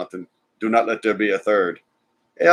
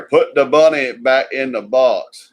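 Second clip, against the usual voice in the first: slow, drawn-out Southern movie drawl; slow Southern accent, lazily quoting the line; slow hammed-up Southern accent; mock Southern accent; 3 dB louder, slower than usual. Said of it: "His Southern accent was cheesy".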